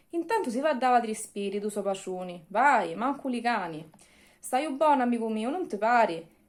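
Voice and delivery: reading verse in Sicilian dialect; storyteller reading in Messina Sicilian. Acted. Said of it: "Con una versione in siciliano".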